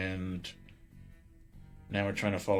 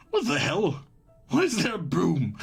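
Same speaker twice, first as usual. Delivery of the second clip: higher, louder, about to burst out laughing; incredulous, laughter bubbling up through the words; real amused disbelief; 8 semitones higher, 5 dB louder than usual. Real, not acted. Laughing at the broom.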